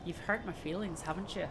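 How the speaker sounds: put-on Irish accent. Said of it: "There you go. It took a minute".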